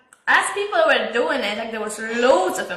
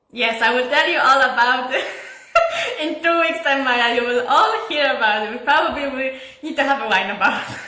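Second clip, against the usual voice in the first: laughing tease. Real, not acted. Teasing friends, laughing throughout.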